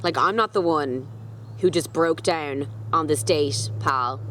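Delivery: a touch of offended sass; putting the heartbroken date in his place; offended retort. Retold or imitated. Mildly offended comeback to the crying date. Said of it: "I was literally so offended".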